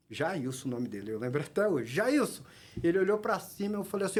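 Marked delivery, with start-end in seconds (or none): 1.9-2.4 mild mock call from above. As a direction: lightly imitate calling down to someone. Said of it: "eu gritei lá de cima". (chamando lá de cima, sem gritar de verdade)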